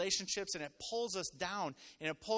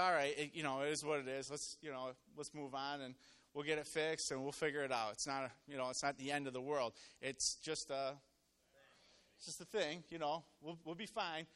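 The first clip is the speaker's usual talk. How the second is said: low, soft, easygoing reassurance; calm reassurance; 5 semitones lower, 4 dB quieter than usual. Retold or imitated. Husband calming his wife after her car accident, low and reassuring. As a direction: play it down gently, in a lower voice.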